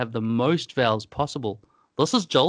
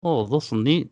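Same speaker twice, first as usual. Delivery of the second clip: put-on Kiwi accent. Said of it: "New Zealanders have gone the extra level".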